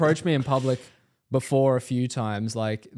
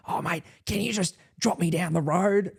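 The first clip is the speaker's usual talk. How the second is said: higher-pitched wheedling dodgy bloke; suspicious stranger; 7 semitones higher than usual. Retold or imitated. Stranger asks him for a lift, imitated wheedling. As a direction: imitate a shifty stranger angling for a favour. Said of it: "definitely a suspicious character instantly".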